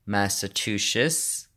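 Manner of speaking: slow, careful attempt at "Massachusetts"; careful attempted pronunciation. Shown as a demonstration. Vlogger trying to name partner's home state, "Massachusetts" pronounced slowly and carefully. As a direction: sound out "Massachusetts" slowly as best you can. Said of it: "closest that I can do to pronouncing it".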